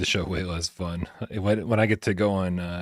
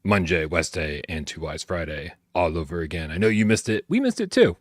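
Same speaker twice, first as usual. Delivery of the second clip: talking like a pirate. Acted. Host welcomes viewers back to the live show, sliding into pirate talk. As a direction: slip into a hint of pirate while announcing. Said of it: "Why am I talking like a pirate?".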